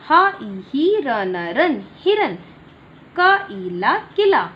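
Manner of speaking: put-on teacher spells words out slowly for children; slow spelling out. Shown as a demonstration. Slow, loud sounding-out drill. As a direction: sound out each letter slowly, then the word. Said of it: "मेरे साथ उच्चारण करेंगे".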